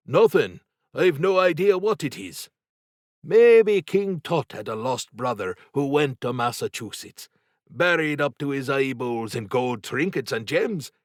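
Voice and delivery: excited Paddy. A narrator's reading.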